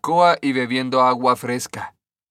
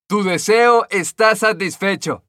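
higher, louder fairy voice; fairy granting a wish; 6 semitones higher, 4 dB louder than usual. A narrator's reading. Green fairy to the stonecutter, grand higher voice.

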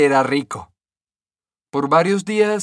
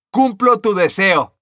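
higher, louder fairy voice; fairy granting a wish; 6 semitones higher, 6 dB louder than usual. A narrator's reading. Green fairy to the stonecutter, grand higher voice.

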